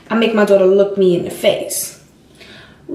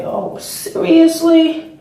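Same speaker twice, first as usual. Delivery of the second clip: exasperated seriously; 6 semitones higher, much slower than usual. Retold or imitated. Picking up daughter in trouble.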